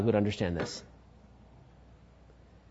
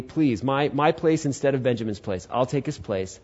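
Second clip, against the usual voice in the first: soft, low acted plea; understated earnest appeal; pleading; 4 semitones lower, 6 dB quieter than usual. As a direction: beg quietly to take another's place. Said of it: "Judah makes his big plea".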